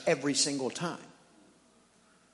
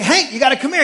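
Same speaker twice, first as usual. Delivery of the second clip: high, loud call; calling the dog; 10 semitones higher, 11 dB louder, much faster than usual. Retold or imitated. Owner calling his dog to come, high and loud. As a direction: call the dog over across the yard. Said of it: "I'm like".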